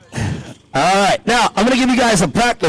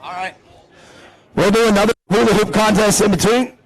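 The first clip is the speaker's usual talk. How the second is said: ordinary talk, nothing marked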